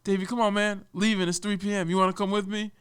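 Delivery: lightly voiced boss.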